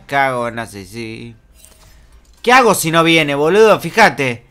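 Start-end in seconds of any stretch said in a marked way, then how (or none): 2.4-3.8 louder exasperated complaint; frustrated outburst. Real, not acted. Player fed up that Katarina won't come, loud exasperation. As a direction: vent at the screen, fed up.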